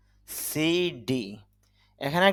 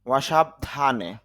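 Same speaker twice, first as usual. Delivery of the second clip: slow gloss; much slower than usual. Shown as a demonstration. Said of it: "teacher glosses slowly".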